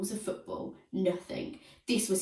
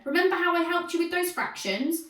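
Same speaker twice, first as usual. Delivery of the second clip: begging; 10 semitones higher, 3 dB louder than usual. A narrator's reading. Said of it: "begged Brainy Brian".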